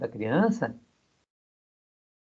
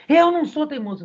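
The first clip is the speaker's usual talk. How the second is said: high, louder mock kid retort; pitched-up petulant child voice; child talking back; 12 semitones higher, 4 dB louder than usual. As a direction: mimic a stubborn boy protesting. Boy talks back to teacher.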